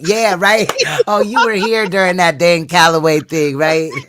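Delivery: high, loud mocking imitation. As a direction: play the smug commenter. Mocking someone's reaction.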